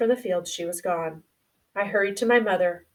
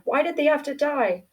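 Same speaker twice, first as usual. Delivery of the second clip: higher, choked-up grieving questions; choking voice; 5 semitones higher than usual. Acted. Boy asking his mother why his dogs died, choking up. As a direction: voice catching as he asks why. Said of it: "In a choking voice".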